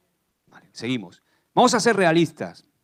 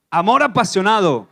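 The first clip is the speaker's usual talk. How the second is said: with gusto; 2 semitones higher, 4 dB louder than usual. Shown as a demonstration. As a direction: call it out with drive. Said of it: "Con ese ímpetu ahí".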